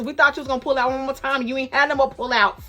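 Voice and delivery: high, loud, excited yell; cheering shout. Retold or imitated. Male instructors cheering the student who passed, loud and high. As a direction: cheer her on loudly. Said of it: "all the male instructor was like, shout".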